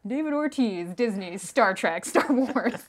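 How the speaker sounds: slow, drawn-out list of names; Dakota impression. Host showing off an impression of a colleague, slow put-on delivery. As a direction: space out each name slowly, in character. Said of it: "This is my Dakota impression".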